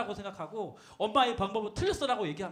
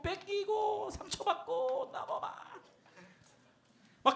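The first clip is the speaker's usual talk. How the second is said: slow, climbing, softer list; mock wail fading as it climbs; drawn-out litany; 8 semitones higher, 6 dB quieter, slower than usual. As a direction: stretch each blow out, rising higher. Piling up life's knocks, rising.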